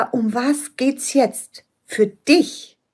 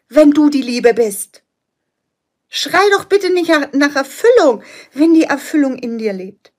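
voice of the soul; 3 semitones higher than usual. Acted. Coach voicing the soul urging the client, mild insistent call. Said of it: "Dieses Divine Soul Blueprint schreit".

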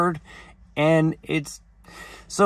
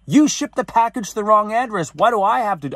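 indignant retort, pitched higher; mad; 6 semitones higher, 3 dB louder than usual. Retold or imitated. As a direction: fire it back in exasperation, higher-pitched. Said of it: "I got so mad".

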